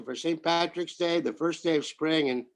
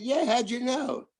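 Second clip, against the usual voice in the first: lightly imitated English accent, pitched up; 6 semitones higher than usual. Englishman answering a stranger in a bar, mock English accent. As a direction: put on a hint of an English accent. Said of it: "could tell from your accent".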